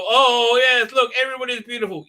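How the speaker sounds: high, loud mock-Irish lilt; hammed-up Irish accent; fake Irish accent. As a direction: put on a silly, high Irish voice. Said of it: "Let me do a fake Irish accent".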